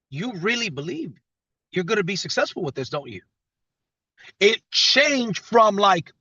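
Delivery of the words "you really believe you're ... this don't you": quieter, a mildly impressed knowing question; lightly convinced, as if they already know. Retold or imitated. The same people later, a quieter knowing tone. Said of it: "but with a different tone".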